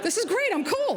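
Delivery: put-on thrilled voice, pitched very high. The speaker replays her own past reaction to being called cool, retelling excitement.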